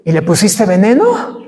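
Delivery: disbelieving laugh through the words; laughing question. Retold or imitated. Pastor asks the girl about the poison, half laughing. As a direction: ask it half laughing at the absurdity.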